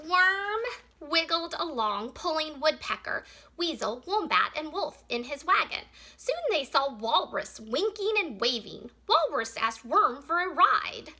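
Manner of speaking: measured read-aloud with animal names picked out; story reading. Acted. Teacher reads a picture book about Worm's wagon, story reading. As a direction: read it clearly to young children.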